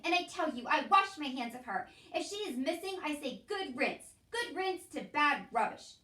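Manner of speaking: loud, scornful shout. A narrator's reading. Louise shouting good riddance about Meg, loud and scornful. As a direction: bellow it, washing your hands of her. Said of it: "Louise was shouting".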